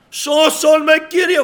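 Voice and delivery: very high, loud scream for rescue; desperate cry. Acted. Preacher acts sinking Peter calling on the Lord, screamed plea. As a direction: scream for your life to be saved. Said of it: "φώνασε".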